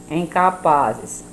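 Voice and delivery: "capazes" drawn out slowly; slow pronunciation. Shown as a demonstration. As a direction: stretch "capazes" syllable by syllable. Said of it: "temos que pronunciar devagar".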